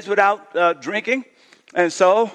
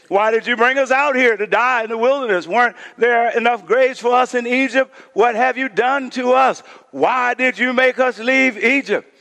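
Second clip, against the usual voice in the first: whiny complaint, pitched up; complaining Israelites; 4 semitones higher than usual. Acted. Preacher voicing the Israelites turning on Moses, mildly whiny. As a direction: voice the grumbling crowd, a little higher.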